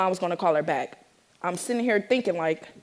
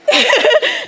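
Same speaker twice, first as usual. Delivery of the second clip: loud, high burst of laughter; 9 dB louder than usual. Real, not acted. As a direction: laugh out loud mid-story. Laughs at being yelled at.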